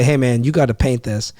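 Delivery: a flat command with no please; bossy order. Shown as a demonstration. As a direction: tell the worker what to do, no softening.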